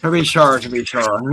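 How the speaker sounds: stock Irish put-on lilt; Irish accent. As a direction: play up a jokey Irish accent. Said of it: "put on Irish accents now".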